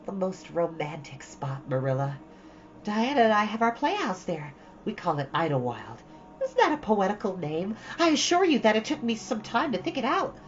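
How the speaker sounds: lightly voiced dreamy girl, rushing on; Anne, chattering eagerly. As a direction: gush to Marilla about her playhouse.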